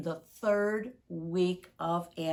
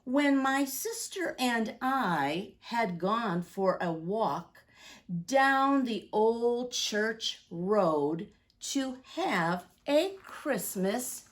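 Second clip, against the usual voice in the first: storybook rhyme read with slow, lingering phrases; reading to children; 3 dB louder, slower than usual. Acted. Reads Santa's Prayer to the children, storybook voice. Reads picture book aloud.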